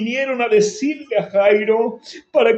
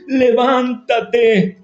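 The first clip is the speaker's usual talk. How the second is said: slow command; much slower than usual. Acted.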